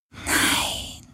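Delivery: soft breathy denial; whispered no. Acted. Ghost whispers no to Galen. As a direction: gently contradict. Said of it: "flüsterte der Geist".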